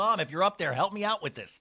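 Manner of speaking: ordinary talk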